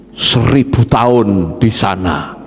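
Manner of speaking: low, drawn-out sentencing; slow pronouncement. Acted. Preacher pronounces the sentence in hell, slow and low.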